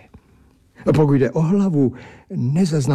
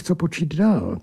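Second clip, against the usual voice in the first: ordinary delivery, nothing marked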